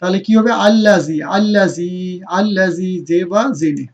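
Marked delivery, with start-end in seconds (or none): 0.7-2.9 drilled আল্লাজি, long ee held each time; madd lengthening. Shown as a demonstration. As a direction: draw out the final "zee" of আল্লাজি. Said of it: "ইয়া মাদ".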